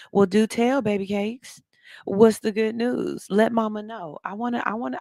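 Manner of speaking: playful mama. Acted.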